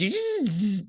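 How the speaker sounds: high buzzing mouth noise; imitated suit noise. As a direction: imitate a high machine sound. Imitating suit's sound in retelling.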